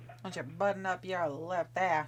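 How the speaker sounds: put-on old Hollywood transatlantic accent. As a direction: mimic a thirties film transatlantic accent. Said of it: "with my transatlantic accent".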